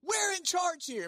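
high, slow pompous claim; pompous Pharisees. Retold or imitated. Pharisees asserting control over officers, high and pompous. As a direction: assert authority grandly. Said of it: "They're saying".

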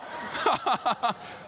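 high, hammed-up boo-hoo; mock sobbing. Convert made to cry by a critic, mock sobbing. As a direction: burst into fake sobs.

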